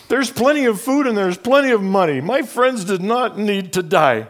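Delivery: the truth hits you hard; rising outrage. Real, not acted. Outraged realization.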